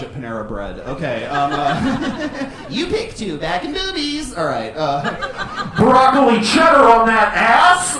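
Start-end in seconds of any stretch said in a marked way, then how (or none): 5.8-8.0 higher, louder, slow with a laugh; hammed-up order. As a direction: belt out the soup order. Mock Panera order.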